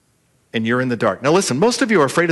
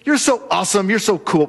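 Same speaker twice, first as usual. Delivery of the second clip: buttering up; 4 semitones higher than usual. Retold or imitated. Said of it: "when people butter you up".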